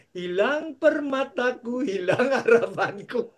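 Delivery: slow, drawn-out hammed-up mourning; mock lament. Pastor mourning his lost jewel, slow and mock-sad. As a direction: drag each loss out with mock grief.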